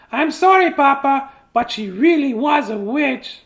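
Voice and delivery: high, loud chirpy chick; chicken voice. Acted. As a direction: promise eagerly in a squeaky chick voice. Chick apologizes.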